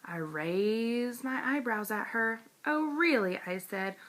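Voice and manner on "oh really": high sassy oh really; fake-innocent sass at a tattletale; mock surprise. A narrator's reading. Junie B sasses May with a high mock surprised really.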